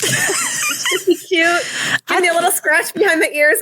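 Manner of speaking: very high, slow, squeaky and cute. Pretend. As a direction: coo it like a spoiled pet. Pretending to be a pampered old horse.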